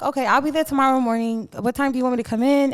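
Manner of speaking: quick, polished phone manner; a light mock posh reply. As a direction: put on a proper voice for the school. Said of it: "Put the posh voice on".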